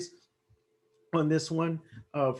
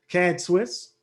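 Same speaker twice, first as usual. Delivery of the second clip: losing voice, hoarse; strained, hoarse voice; 3 semitones higher, 4 dB louder than usual. Real, not acted. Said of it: "I'm losing my voice again".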